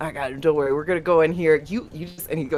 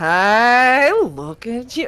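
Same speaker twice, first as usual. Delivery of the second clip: put-on very slow, loud, high drunken drawl, "hey" stretched; 6 semitones higher, 7 dB louder than usual. Voicing a drunk character greeting a friend in a bow tie: drunk, acting drunk. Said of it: "Hawthorne's so drunk".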